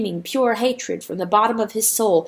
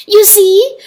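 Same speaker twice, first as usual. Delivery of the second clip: high loud excited cry; cried out; 12 semitones higher, 11 dB louder than usual. Acted. Rooster spotting boats, high excited cry. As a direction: shout it, pointing. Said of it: "the rooster suddenly cried out".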